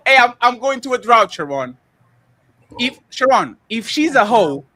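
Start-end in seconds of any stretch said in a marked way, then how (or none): 0.1-1.8 stretched-out whiny plea, hammed up; playacted pleading call; mock pleading. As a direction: beg a friend with drawn-out, put-on distress.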